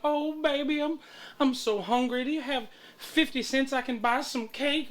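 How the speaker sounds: lightly voiced pitiful beggar; mock begging Sherry. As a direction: beg like the street crackhead. Imitating panhandler Sherry begging.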